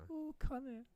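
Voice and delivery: "Oh, Connor" in a light Irish lilt, barely there; a hint of an Irish accent, unintended; slightly Irish. Real, not acted. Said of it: "That was Irish".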